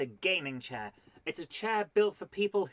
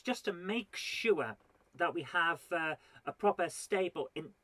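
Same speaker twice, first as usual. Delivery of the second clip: mock serious. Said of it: "now I'm only joking with you".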